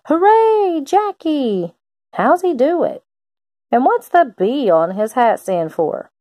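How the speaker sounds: high, thrilled fan's cheer; excited cheering. Acted. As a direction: cheer him on like a fan in the stands. Crowd cheering Jackie at game.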